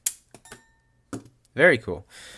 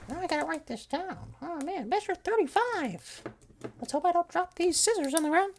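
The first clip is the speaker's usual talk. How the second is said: much higher squeaky cartoon voice; silly high voice; 5 dB quieter than usual. Host griping to himself about editing in a squeaky voice. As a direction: play it as a whiny squeaky cartoon.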